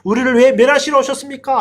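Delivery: imitated demon outcry, not a full shout; demon's cry. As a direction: lightly voice a demon crying out in protest. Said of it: "귀신이 크게 외치는".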